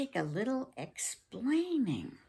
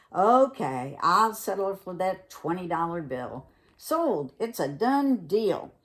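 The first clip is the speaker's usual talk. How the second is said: eager deal closer; 5 dB louder than usual. Acted.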